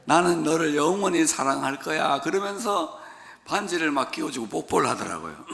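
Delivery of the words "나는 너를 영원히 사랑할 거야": sweet Seoul proposal. Retold or imitated. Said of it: "서울 남자들이 어떻게 프로포즈 하는지".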